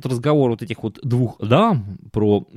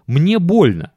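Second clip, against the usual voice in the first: lightly voiced complaining wife; a hint of a tired, whining wife; whiny wife voice; 7 semitones higher, 5 dB louder, slower than usual. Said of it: "аргументы, которые она приводила".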